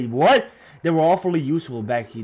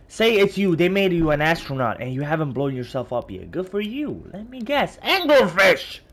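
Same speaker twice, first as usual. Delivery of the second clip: character voice; 6 semitones higher, 5 dB louder than usual. Acted. Reading character's dialogue aloud.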